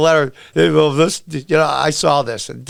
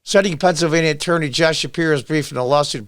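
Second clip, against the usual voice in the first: ordinary talk, nothing marked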